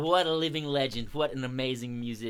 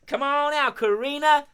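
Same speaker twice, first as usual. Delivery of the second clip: higher, lifted call to a puppet; 11 semitones higher, 7 dB louder than usual. Pretend. Host leading children to call the crow, calling out.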